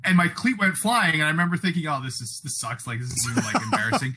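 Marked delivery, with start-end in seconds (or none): 1.9-4.2 embarrassed laughing thought. Retold or imitated. Retold inner thought, laughing.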